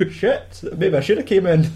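high hammed-up Scottish accent; mock Scottish accent. Missed cop joking about the party, hammed-up Scottish accent. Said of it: "trying to do a Scottish accent".

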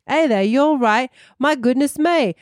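hammed-up British that slips toward American Southern; bad British accent. Shown as a demonstration. Podcast host trying a line from the quote for the co-host, failed British accent. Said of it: "I can't do a British accent".

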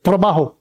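Trabajo with one quick tap of the R; single R flip. Shown as a demonstration. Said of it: "one little time".

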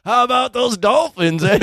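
high, giggling mock cheer; laughing quote. Retelling the dolphins line, giggling high. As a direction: laugh through a forced-casual line. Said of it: "drops the ice bucket and goes".

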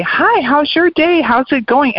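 bright, slow, high-pitched hello; a sunny, drawn-out hi to a stranger; cheerful greeting. Retold or imitated. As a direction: greet them like your day just got better. Mimics cheered-up person greeting others.

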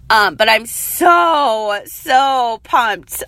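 hoarse voice breaking on words; cracking, worn-out voice. Real, not acted. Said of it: "my voice is, like, cracking".

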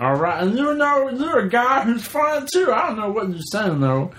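Meatwad voice. Acted. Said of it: "Do Meatwad".

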